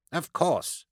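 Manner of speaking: high, piqued retort; snapped. A narrator's reading. Haughty doctor answers the gunman's demand for papers, snapping. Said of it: "Amos snapped".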